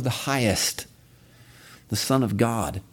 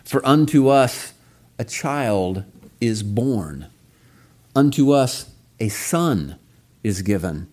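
"unto us" and "a son" leaned on, titles slowed; emphasized reading. Shown as a demonstration. Pastor reading Isaiah to the congregation, stressing Gabriel's words. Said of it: "I'll put the emphasis on those words".

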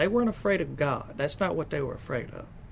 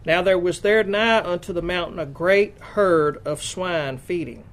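measured, emphatic Bible reading; scripture reading; 3 semitones higher, 5 dB louder than usual. Acted. Preacher reads Mark's gospel to the congregation, emphatic scripture reading. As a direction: read out the verse in deliberate, weighted phrases.

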